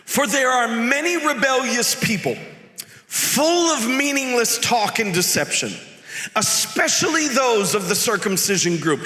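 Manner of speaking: mildly heated, emphatic reading, stretched on key words; understated fury, deliberate and forceful; furious letter reading. Acted. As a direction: read it as an urgent, indignant letter. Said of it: "furiously scribbling out".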